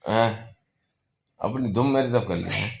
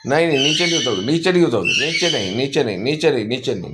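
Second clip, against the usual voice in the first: firm warning; 3 semitones higher, faster than usual. Real, not acted. Stopping the parrot climbing down.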